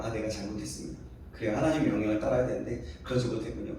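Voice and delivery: hushed, quick murmur of repentance; quiet confession. Acted. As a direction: confess it softly and quickly, head bowed. Jonah confessing to God. (하나님께 잘못을 고백하는 요나, 조용하고 빠른 속삭임 같은 고백)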